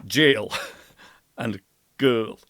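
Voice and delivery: put-on "Jail" English, then Gaelic "girl." closed back vowel; contrast of words. Shown as a demonstration. Teacher contrasting English and Gaelic words. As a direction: set "Jail" against "girl." clearly. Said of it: "crazy kind of contrast".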